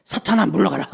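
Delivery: firm command to banish Satan; demonstrated rebuke. Shown as a demonstration. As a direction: order Satan away, demonstrating for listeners. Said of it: "이렇게 하는 거예요". (단호하게 꾸짖는 시범)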